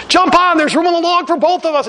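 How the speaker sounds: high, friendly shouted offer; man floating on a log inviting him aboard; calling out. Acted. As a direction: call him onto the log.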